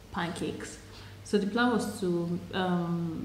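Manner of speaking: muffled by food; talking while chewing. Real, not acted. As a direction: mouth partly full. Seen 0: Fork held, bite taken at -1, lips closed, cheeks full.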